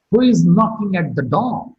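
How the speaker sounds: "door" falls in pitch to end the question; falling tone on door. Shown as a demonstration. Teacher giving a WH question example, falling tone on "door". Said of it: "Do is marked with a point".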